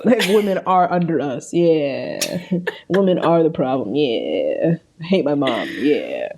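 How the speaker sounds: lightly voiced bro with very low "yeah"s; mock a podcast bro, dropping deep on each "yeah"; a hint of dumb bro impression; manosphere bro. Mocking manosphere podcast fans.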